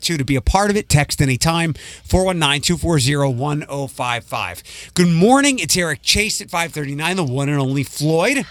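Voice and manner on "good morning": hokey radio voice. Pretend. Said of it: "your hokey radio voice".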